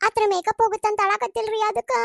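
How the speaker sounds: high, tearless whine; put-on tearful complaint; fake crying. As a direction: whine as if pretending to cry. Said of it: "ಅಳಾಕತ್ತೀಯ ನೀನು".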